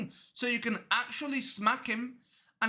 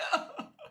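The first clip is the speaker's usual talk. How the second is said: high, thin fake sob; mock crying. Killer breaking down at his fake father, mock sobbing. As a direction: whine out a drawn-out pretend sob. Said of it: "The guy starts crying".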